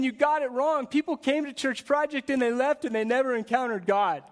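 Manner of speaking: loud, high, stern rebuke; rebuking Jesus. Acted. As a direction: thunder it out like Jesus overturning the tables.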